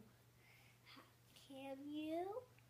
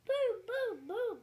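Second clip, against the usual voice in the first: high, loud thunder booms; booming thunder; 7 semitones higher, 13 dB louder than usual. Acted. Telling a child how thunder sounds, loud booms. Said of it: "Mister Brown makes thunder".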